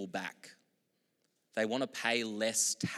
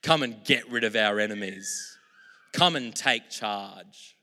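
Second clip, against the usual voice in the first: louder, slow, insistent demand; crowd demanding; 6 dB louder than usual. Retold or imitated. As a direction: voice the crowd calling for war. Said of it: "They're saying".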